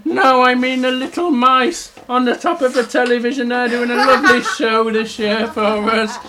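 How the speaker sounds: earnest storybook bear putting it right; explaining little bear. Acted. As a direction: eagerly explain in a little character voice. Little bear explains about the mice.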